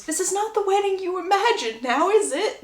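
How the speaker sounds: lightly acted high, wry remark; a hint of a needling aside; confiding groom. Groom leaning in to the bride, lightly acted wry aside. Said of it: "leans into Lucy and goes".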